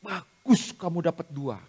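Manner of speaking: slow, measured motherly praise; demonstrated praise. Shown as a demonstration. Tutor models praise for a grade of two, slow and encouraging. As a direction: stretch the praise out deliberately. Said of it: "dapat nilai dua pun Ibu puji".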